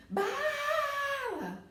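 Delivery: "Bala" with BA held long and high; "Bala" as a drawn-out high call, baaaa-la; held stressed syllable. Shown as a demonstration. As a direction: stretch out the BA in "Bala" like a high call, then drop on LA. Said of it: "Então, eu seguro ba".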